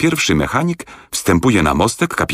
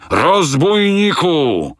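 much higher, very slow roaring voice; raging shout; 12 semitones higher, much slower than usual. A narrator's reading. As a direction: bellow the insult in fury. Captain raging at Fogg. (wściekły wrzask kapitana, dużo wyżej)

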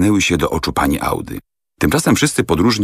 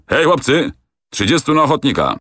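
much higher, a commanding call; calling out to troops; 9 semitones higher than usual. A narrator's reading. Captain calling his soldiers to volunteer, a high rallying call. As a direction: summon the soldiers across the yard. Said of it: "rzucił".

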